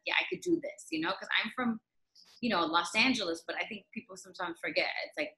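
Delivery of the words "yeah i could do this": high, breathy-whispered hopeful thought; excited inner thought. Retold or imitated. Arriving in New York, telling herself she can do it, in a high near-whisper.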